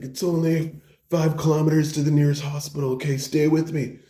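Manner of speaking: high, pressing voice; urgent reassurance. Acted. Bro drives wounded friend to hospital, urgently reassuring. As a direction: keep him conscious, with mock urgency.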